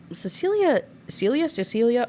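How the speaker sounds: puzzled, rising over the names; baffled at the mix-up; a bewildered husband sorting out names; confused name check. Retold or imitated. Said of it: "he's like".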